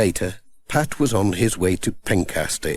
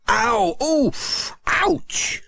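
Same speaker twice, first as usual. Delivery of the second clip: rising little cries, each higher; mild yelps of pain; 14 semitones higher, much slower than usual. A narrator's reading. Pat yelping as Missus Goggins dabs his tooth, mild mock yelp. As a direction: read as a toothache yelp, half-acted. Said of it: "he yelled".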